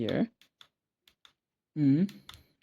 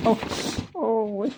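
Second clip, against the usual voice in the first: surprised; 10 semitones higher, slower than usual. Real, not acted. Startled while searching the dictionary.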